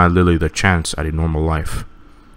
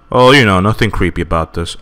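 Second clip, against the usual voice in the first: sarcastic. Real, not acted. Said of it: "sarcastic about creepy scene".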